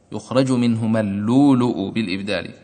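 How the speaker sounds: اللؤلؤ recited as lulu, no glottal stops; اللؤلؤ as lulu, recited gently; al-Susi's reading with the hamza softened. Shown as a demonstration. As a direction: say اللؤلؤ smoothly, the hamzas turned to long vowels. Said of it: "هكذا كان يقرأ السوسي".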